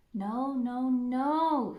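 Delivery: loud wagging no no no; scolding no. Acted. Red scolding the wolf, loud repeated no. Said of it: "finger wagging in the air".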